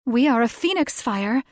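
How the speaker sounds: high, loud squeal of a little creature; shrieking Felix. A narrator's reading. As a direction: shriek it out in shock. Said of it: "Felix shrieked".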